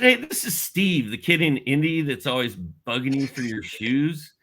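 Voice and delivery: imitating his eager kid self, pitched high; nervous young caller. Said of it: "I remember being super nervous".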